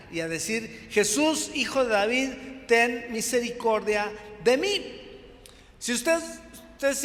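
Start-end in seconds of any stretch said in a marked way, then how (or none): 0.9-5.0 clamor alto y suplicante; gritando. Retold or imitated. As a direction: grita pidiendo misericordia. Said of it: "comenzó a dar voces, obviamente a gritar". (gritando a Jesús)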